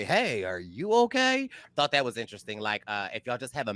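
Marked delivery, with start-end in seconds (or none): 0.0-1.5 slow, high gentle medic voice; a lightly voiced concerned medic; mock medic. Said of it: "just walk up to somebody and say".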